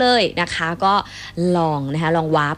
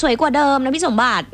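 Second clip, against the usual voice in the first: laughing; 8 semitones higher than usual. Real, not acted. Flattered, laughing at compliment.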